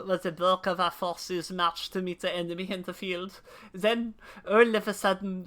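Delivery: lightly voiced old Elezen whaler; NPC voice. Streamer voicing an old whaler NPC, lightly grave. NPC dialogue read aloud.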